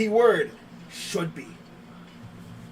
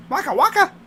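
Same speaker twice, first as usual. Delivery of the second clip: high, loud Muppet bear shout; Fozzie Bear voice; 12 semitones higher, 7 dB louder, faster than usual. Retold or imitated. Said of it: "From the Muppets".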